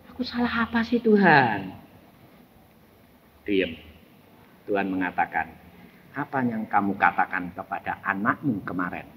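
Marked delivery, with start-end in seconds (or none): 0.1-1.7 high, soft mock-innocent whine; plaintive protest. Father asking God what he did wrong, plaintive. 6.2-9.1 low, hushed voice of God; God questioning. Retold or imitated. God questioning a father about his child, quiet authority.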